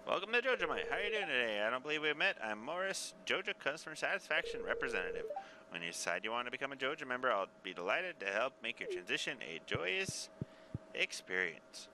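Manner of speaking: lightly voiced cheery corporate rep; a hint of a slick customer service rep; salesman voice. Voicing the Joja representative.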